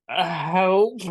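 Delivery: a pitiful little cry for help; feeble call for help. Retold or imitated. Patient on the floor waving at nurses, weak plea.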